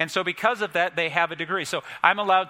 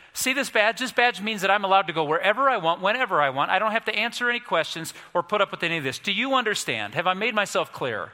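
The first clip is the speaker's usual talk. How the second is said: higher, mildly heated official bluster; indignant officer; 3 semitones higher than usual. Retold or imitated. Officer showing the rancher his badge, mock indignant. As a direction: pull rank with a touch of temper. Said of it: "had an ego because he exploded".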